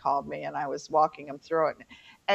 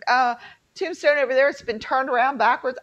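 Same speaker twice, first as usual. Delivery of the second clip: higher, louder, eager guide voice; groundskeeper's voice; 8 semitones higher, 4 dB louder than usual. Retold or imitated. Groundskeeper telling visitors about the warlock's grave, in a higher, louder eager voice. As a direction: play the chatty groundskeeper pointing out graves. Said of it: "he was telling us".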